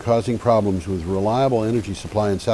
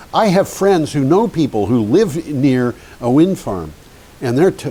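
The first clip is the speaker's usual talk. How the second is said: emphatic, louder mock-indignant quote; retold livid man; 5 semitones higher, 3 dB louder than usual. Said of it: "a man who was just livid".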